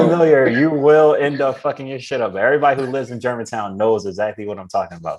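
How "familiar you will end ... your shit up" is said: raised, higher and louder warning; emphatic warning. Real, not acted. Warning listeners about Germantown Ave, loud and emphatic. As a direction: hammer home the danger to outsiders.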